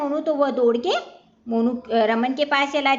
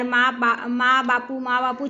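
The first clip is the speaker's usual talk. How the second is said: mild mock wail. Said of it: "चिल्ला रहा है".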